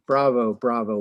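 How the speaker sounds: loud cheer from the crowd. Acted. Revellers cheer the chairman's speech, loudly. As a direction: call out bravo to the hall.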